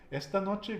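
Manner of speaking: "Esta noche" stressed ES-ta NO-che; "Esta noche", both final vowels unstressed; penultimate stress. Shown as a demonstration. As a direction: lean on the first syllable of "Esta" and of "noche". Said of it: "we put the emphasis on the penultimate".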